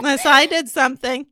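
guilt-trip in a hammed-up Jewish mom voice, breaking into a laugh. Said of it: "the way my mom would have said it".

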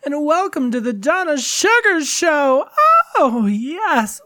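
high, sultry showgirl hostess voice; femme fatale. Pretend. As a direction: purr it like a glamorous diva host. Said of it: "this voice".

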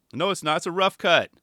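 imagined indignant comeback, only half yelled; defensive yell. Retold or imitated. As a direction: snap back defensively at the teasing. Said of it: "I would have yelled at him".

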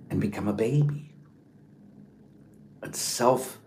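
hushed, measured wonder with long pauses; reflective meditation. Acted. Leads a reflective meditation on the Nativity.

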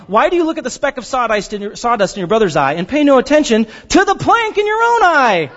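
quick, playful rabbi-style punchline; dramatic comic flair. Shown as a demonstration. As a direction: deliver it as a joke for laughs. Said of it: "laugh when I say this".

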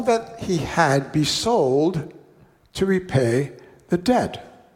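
measured, unhurried Bible reading; slowing on the king's sentence; scripture reading. Acted. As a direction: read the parable to the congregation. Reads scripture passage aloud.

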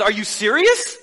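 amused incredulous question with a laugh; lightly voiced exasperated God; mild mock disbelief.

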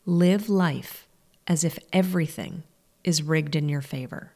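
"Live life as if everything", pause, then "is rigged in your favor"; measured restatement, broken into two weighted phrases; emphatic repeat. Shown as a demonstration. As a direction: repeat it deliberately, pausing after "everything" to let it sink in. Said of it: "Let me say that again".

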